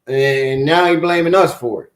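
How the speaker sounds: calls out loud to Japan like a tattletale; loud and indignant, as if reporting him to Japan; mock appeal to Japan.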